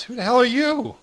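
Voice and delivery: high, loud, rough challenge from above; gruff stranger's shout. Acted. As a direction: bark it down at the strangers. GM voices a stranger calling out.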